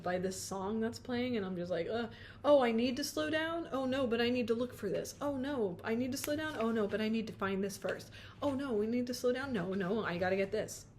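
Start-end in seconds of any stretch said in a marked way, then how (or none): 1.9-10.9 mock frantic self-talk, a touch rushed; flustered inner voice. Reader acting out the client's frantic inner voice. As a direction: play the scattered rushing client. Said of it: "That's the energy I'm getting".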